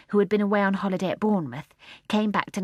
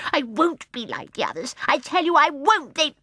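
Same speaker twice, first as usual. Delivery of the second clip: soft and fierce; 8 semitones higher, 4 dB louder than usual. A narrator's reading. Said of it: "called softly and fiercely".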